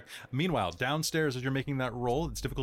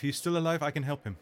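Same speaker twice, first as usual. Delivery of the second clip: wife's voice; 5 semitones higher than usual. Acted. GM voices the wife.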